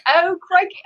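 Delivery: high-pitched hammed-up Aussie exclamation; Australian accent. Showing the hosts how to impersonate each other, mock Australian accent. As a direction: put on a cartoonish Australian accent. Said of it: "now I'm doing Australian".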